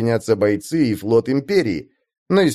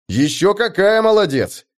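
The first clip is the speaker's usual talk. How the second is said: blurted out; 9 semitones higher than usual. Acted. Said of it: "тут же выпалил я".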